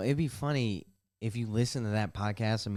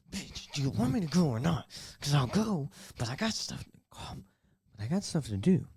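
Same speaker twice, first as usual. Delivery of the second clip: higher and louder, mock exasperation; exasperated retort; 7 semitones higher, 4 dB louder than usual. Retelling snapping at the indecisive gym girl, exasperated. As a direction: fire it back like you've run out of patience.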